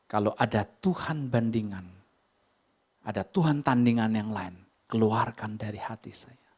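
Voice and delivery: hushed, breathy prayer to God; slow whispered confession before God. Retold or imitated. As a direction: pray it under your breath, intimate. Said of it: "Saya bilang".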